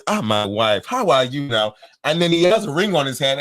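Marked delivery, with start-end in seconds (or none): 0.1-1.7 put-on African-accented suitor; imitated African man's accent. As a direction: greet flirtatiously in an African accent. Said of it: "an African man will come up to you and say".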